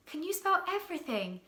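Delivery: admiring. A narrator's reading. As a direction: ask in wonder. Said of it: "asked Milo admiringly".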